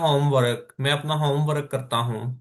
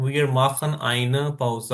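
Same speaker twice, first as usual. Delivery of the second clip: slow repeat; 2 semitones lower, much slower than usual. Shown as a demonstration. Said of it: "eine मैंने एक".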